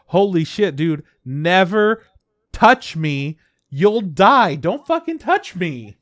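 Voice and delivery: high, loud frantic warning; mock panic. The falling girl warning him off, loud mock panic. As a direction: shout it like a panicked kid. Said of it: "she's like".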